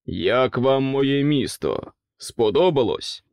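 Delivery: slow, heavy royal question; gruff king. Acted. King asks guests about his city, slow and heavy. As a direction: demand praise like a sour king.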